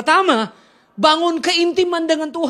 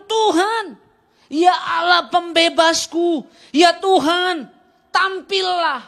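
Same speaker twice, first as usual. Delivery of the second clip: raised, urgent shout of a prayer; a psalmist's loud pleading shout; desperate cry to God; 5 semitones higher, 3 dB louder, much slower than usual. Retold or imitated. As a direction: cry out to God in anger and need. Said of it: "lagi marah dia".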